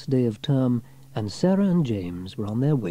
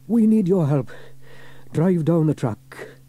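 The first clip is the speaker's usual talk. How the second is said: raised, slow firm voice; steady hero giving orders; Fireman Sam; 7 semitones higher, 4 dB louder than usual. A narrator's reading. Sam replies to Penny on the radio, firm and slow. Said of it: "Fireman Sam replied".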